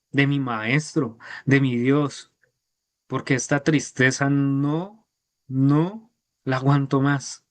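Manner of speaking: slow, aching plea; lightly voiced sorrowful plea; pleading Peter. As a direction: beg forgiveness, heartbroken. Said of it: "Pedro dijo".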